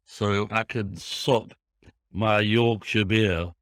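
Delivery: slow, lightly exaggerated Yorkshire accent; playful Yorkshire accent with measured pauses; put-on Yorkshire accent. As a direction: lay on a bit of Yorkshire, drawn out. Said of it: "I don't know why I put that accent on".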